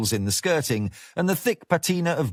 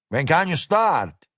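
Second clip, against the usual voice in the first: coarse Mexican-flavoured diner boss, higher; boorish cook boss; 5 semitones higher than usual. Acted. Gomez voiced.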